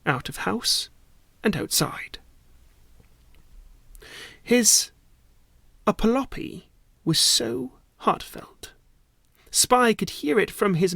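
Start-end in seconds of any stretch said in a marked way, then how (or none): 1.4-8.7 whisper. A narrator's reading. Whispered narration of apology.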